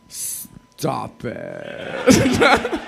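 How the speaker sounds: high delighted squeal; thrilled, laughing disbelief; excited. Retold or imitated.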